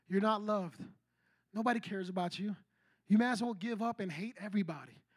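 low, softened voice, still voiced; retold whisper. The enemy speaking inside someone's head, mock whisper. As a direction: imitate a quiet, insinuating tempter. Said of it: "he whispers in our head".

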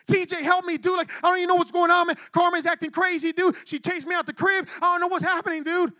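frantic mock plea to a friend; panicked. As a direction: act out a panicked call for help. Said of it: "we begin panic and panic and panic".

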